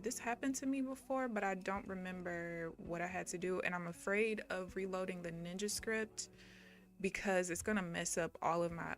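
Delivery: ordinary talk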